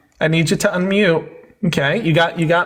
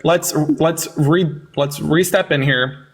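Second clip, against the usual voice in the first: calm reset; 3 semitones lower than usual. Real, not acted. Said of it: "let's take a quick deep breath".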